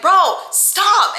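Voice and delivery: high, loud retold shout; mock yell. Girlfriend shoving him off, yelling high. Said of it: "and she was like".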